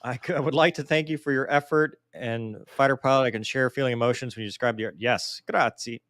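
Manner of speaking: hammed-up Italian accent, lightly done; playing an Italian fighter pilot with a light Italian accent; mock Italian accent. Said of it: "your Italian accent is about as good as".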